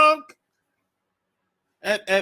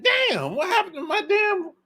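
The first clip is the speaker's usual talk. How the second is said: bewildered husband; 8 semitones higher than usual. Retold or imitated. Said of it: "They're like".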